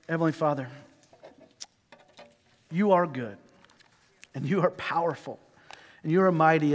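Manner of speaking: earnest, hushed closing prayer. Real, not acted. Pastor praying over the congregation, hushed and earnest.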